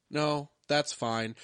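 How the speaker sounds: slow, emotionless mock deadpan; drawn-out, oddly unbothered reply; weird inflection. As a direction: imitate a stilted actor with no feelings. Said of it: "they talk with such a weird inflection".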